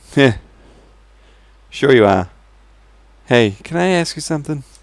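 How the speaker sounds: unconvincing put-on American accent, poorly done. Reading a dialogue aloud, answering a man who claims to be king, bad American accent. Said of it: "My American accents aren't very good".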